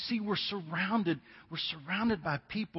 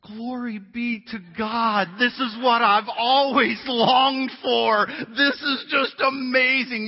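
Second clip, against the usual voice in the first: slow, higher, louder hammed-up rapture; mock rapturous surprise; 8 semitones higher, 10 dB louder, slower than usual. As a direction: overplay the joy of the perfect gift. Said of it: "expecting this look of surprise".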